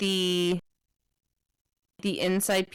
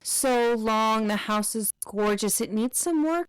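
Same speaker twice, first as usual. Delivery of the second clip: high, bright fake-polite party voice; mock socialite chatter, much higher; gushing guests; 6 semitones higher than usual. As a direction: gush over them like a sugary hostess. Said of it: "they're like".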